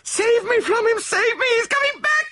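very high, loud, wailing confession; hysterical cry. A narrator's reading. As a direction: shriek in mounting terror. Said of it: "she cried hysterically".

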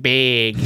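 "big" with the Chicago A turned toward E; Chicago vowel. Shown as a demonstration. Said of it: "A's become, like, E's".

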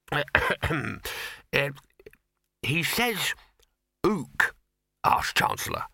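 halting, nervous admission with long pauses. A narrator's reading. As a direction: reluctantly admit something absurd to a superior. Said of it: "He coughed nervously".

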